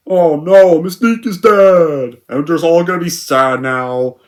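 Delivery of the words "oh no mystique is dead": higher, louder, slow fake grief; mock mourning. X-Men mourning Mystique, sarcastic fake grief. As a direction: overplay the sorrow sarcastically.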